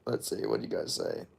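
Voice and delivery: whispered under the breath; whispering. Real, not acted. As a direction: murmur it to yourself. Reading chat to himself.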